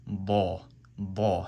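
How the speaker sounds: ba said slowly with a heavy D; slow, weighty ba. Shown as a demonstration. Teacher contrasting heavy D ba with va. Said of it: "This sound is a D sound".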